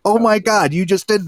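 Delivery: high, loud shocked gasp of disbelief. Retold or imitated. Wife telling husband what he did, high shocked squeal. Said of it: "And she was like".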